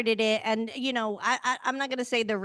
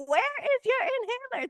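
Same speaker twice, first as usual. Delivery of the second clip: Nene Leakes impression; 14 semitones higher, much faster than usual. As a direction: do a hammed-up diva demand, stretch every word. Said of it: "It was giving".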